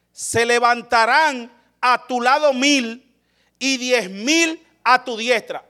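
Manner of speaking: slow, measured verse recitation; solemn scripture reading. Acted. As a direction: intone the verse slowly. Scripture quoted.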